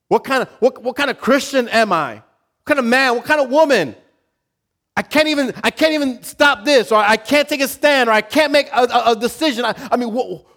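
high, loud anguished questions; loud preaching. Real, not acted. Preacher voicing a believer's despair, loud and high.

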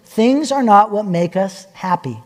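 lightly voiced gentle mother. Mother reminding her son about things, mildly gentle. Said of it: "Denise very gently says".

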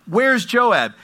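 high, loud shouted question; calling out. Acted. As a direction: call out for someone from a city wall. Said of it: "And she calls out Joab".

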